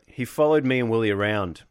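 lightly put-on Southern accent; a blues singer. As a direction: quote him with a touch of a Southern accent. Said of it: "tried to do it in his voice".

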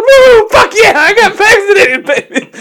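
hammed-up high, loud yelling; screechy mock celebration at full blast. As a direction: holler like an overhyped party bro. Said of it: "he's just yelling".

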